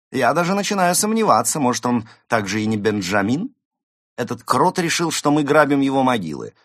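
high, loud, agitated grumbling; Evgeny, fussy diarist. Acted. Diarist recounting a suspicious mole's accusations, fussy indignation. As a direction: exclaim and complain with mounting indignation.

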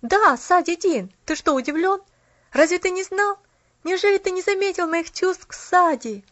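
animated exclamation, pitched high; exclaiming. A narrator's reading. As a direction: press a friend in disbelief. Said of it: "воскликнул Джимми".

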